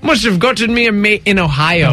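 mock Irish accent; playful Irish lilt. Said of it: "I don't know why we're talking like that".

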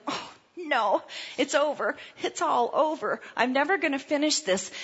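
high, softened mock-despair whine. Jogger giving up over a calf cramp, mock despair. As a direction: play up hopeless defeat, pitched high.

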